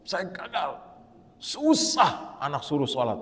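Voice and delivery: slow, mildly anguished retold lament; acted plea of a mother at a loss; imitating tearful mother. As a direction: voice a despairing parent, drawing the words out. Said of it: "ada ibu yang nangis".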